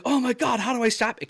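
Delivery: high-pitched, anxious self-questioning; retold panic. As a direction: re-enact helpless alarm over a bleeding friend. Retold panic over spurting blood.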